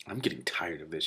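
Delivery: soft whisper to a friend. Acted. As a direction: lean in and whisper it. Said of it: "Shiara whispered to me".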